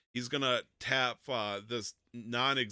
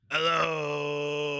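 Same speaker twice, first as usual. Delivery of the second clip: long, loud held hello; shout; 4 semitones higher, 8 dB louder than usual. Acted. Player calling to the echoes, shouting. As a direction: call out high and loud into a cave. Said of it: "I'm gonna shout".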